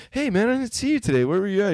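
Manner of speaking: put-on very high squeaky kid voice; kid asking. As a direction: chirp it like an eager boy.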